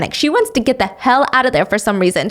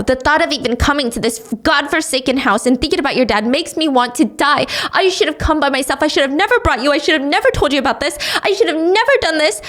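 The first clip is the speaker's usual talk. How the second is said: panicking mother; 4 semitones higher, faster than usual. Acted. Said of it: "she starts having a full-blown panic attack".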